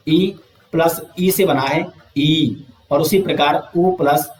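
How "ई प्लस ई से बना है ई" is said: slow explaining. Shown as a demonstration.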